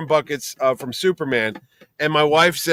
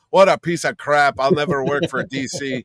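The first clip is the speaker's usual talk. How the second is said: lightly Irish-accented mock rant. Imagined comic artist cursing his employer, in a stray Irish accent. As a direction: put on a slip of an Irish accent. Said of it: "why he's talking like an Irish accent".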